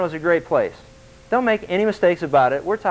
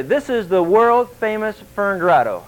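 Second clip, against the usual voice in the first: slow, higher mock tour-guide announcement; a hint of grand tour spiel; 4 semitones higher than usual. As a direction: lightly imitate a guide presenting the attraction. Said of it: "they take you up there and they say".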